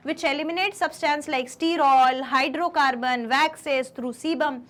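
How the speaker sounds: slow, spaced-out dictation pace; slow note dictation. Shown as a demonstration. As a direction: read it out slowly so they can write. Teacher dictating notes slowly. (नोट्स लिखवाने वाली धीमी आवाज़)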